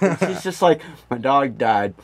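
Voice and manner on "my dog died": imitating a drained, depressed teacher, low-pitched; lightly voiced worn-out teacher, low and subdued; wrecked teacher. Teacher confesses to health class her dog died, wrecked. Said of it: "she just looked fucking wrecked".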